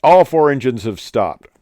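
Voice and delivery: lightly put-on British captain; British captain accent. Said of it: "Then he says".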